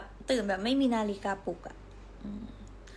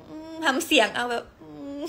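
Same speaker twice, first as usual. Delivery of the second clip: whimpering hum; 4 semitones higher than usual. Retold or imitated.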